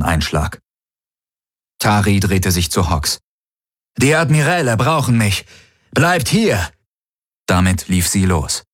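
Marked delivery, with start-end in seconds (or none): 4.0-6.7 high-pitched, pressing command; urgent order. A narrator's reading. Officer leaves companions under attack, high urgent order. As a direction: tell them firmly to stay, pitched up.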